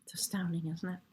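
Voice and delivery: breathless whisper of wonder; awed whisper. Real, not acted. Reader marvelling at the tarot card, in an awed whisper. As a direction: whisper it as if in awe.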